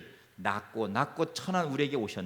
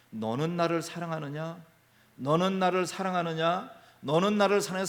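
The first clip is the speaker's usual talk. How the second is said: Jesus asking; 2 semitones higher than usual. Retold or imitated. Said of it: "베드로에게".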